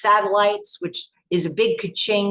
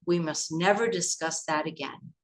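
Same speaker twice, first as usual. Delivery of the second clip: hushed warning; 3 semitones lower, 6 dB quieter than usual. Retold or imitated. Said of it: "he said".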